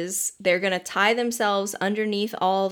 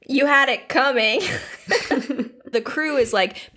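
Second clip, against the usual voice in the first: ordinary talk, nothing marked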